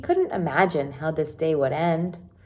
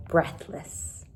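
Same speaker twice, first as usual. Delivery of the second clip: whispered word; 6 dB quieter than usual. Shown as a demonstration. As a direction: whisper the word "Breathless" softly.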